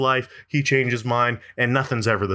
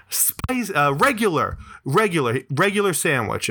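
imitated call from the back, barely raised; mock yell; 3 semitones higher than usual. Man at the back corrects the order, imitated yell. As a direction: repeat it insistently in a mild mock yell. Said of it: "this dude yells from the back".

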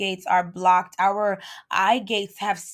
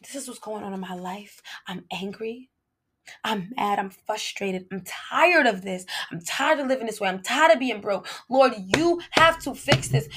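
lightly voiced plain-hearted prayer; honest prayer. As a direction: pray it simply, tired. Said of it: "Sometimes it's just".

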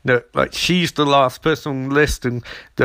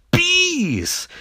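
high, drawn-out squeal; mock alarm. Everyone reacting to a bee attack, squealing in mock alarm. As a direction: stretch it into a high comic cry.

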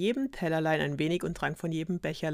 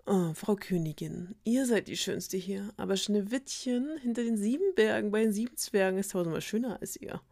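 solemn mirror voice; 3 semitones higher than usual. Acted. Magic mirror answers queen.

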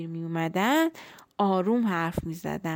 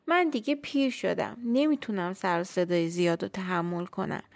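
put-on lonely old tree; 2 semitones higher than usual. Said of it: "خیلی دلتنگ شده بود".

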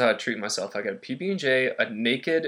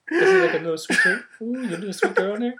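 much higher, laughing cutesy coo; high cooing candy voice; 7 semitones higher than usual. Pretend. Acting out finding candy in popcorn with a high laughing coo. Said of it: "be like".

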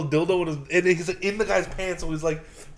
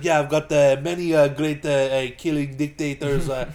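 slow, halting mock Israeli accent; slower than usual. Agent listing who signed it, imitated Israeli accent. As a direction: put on a light Israeli accent, drawing out names. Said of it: "he was playing the Israeli".

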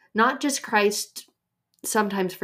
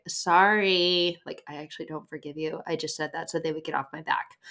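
insincere apology. Acted. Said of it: "sometimes we say sorry, but we're still holding on".

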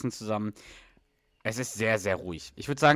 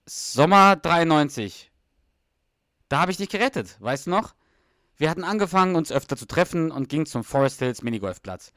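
1 Doug boasting; 3 semitones higher than usual. Acted. S0 reads Doug's part.

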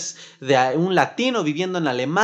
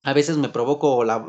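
normal talking voice

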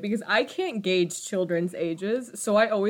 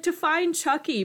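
over-the-top mom; 8 semitones higher than usual. Retold or imitated. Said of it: "the way she says it was funny".

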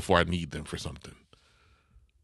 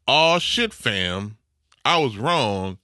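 higher, louder mock coworker admitting he's wrong; imitating coworker louder; 4 semitones higher, 4 dB louder, much slower than usual. Repeating coworker's reply to cohost, more emphatic mock voice. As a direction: replay his reply with a bigger oh shit. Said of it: "That's his reply".

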